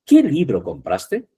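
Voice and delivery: slow question with QUÉ pitched high; question intonation. Shown as a demonstration. Teacher showing interrogative qué, questioning tone. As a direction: stress "Qué" high, asking slowly.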